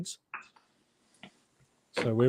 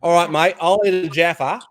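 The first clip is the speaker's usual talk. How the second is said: light Aussie twang, a bit higher and louder; mock Aussie, mate and all; Australian accent; 5 semitones higher, 5 dB louder than usual. Shown as a demonstration. Aussie friend asked to say Jaffa, Australian accent. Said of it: "that's my Australian accent".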